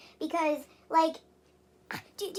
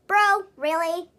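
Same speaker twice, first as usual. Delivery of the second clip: incredulous; 3 semitones higher, 8 dB louder, slower than usual. Real, not acted. Reacting to dad's ultimatum.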